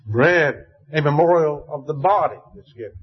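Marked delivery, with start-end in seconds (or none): 0.0-0.6 Bread set apart with weight; stressed word. Shown as a demonstration.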